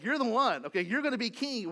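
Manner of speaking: excited Peter. Retold or imitated. Peter to Jesus, sure he will be king, loud and eager. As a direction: hail him as the coming king. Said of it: "It's like".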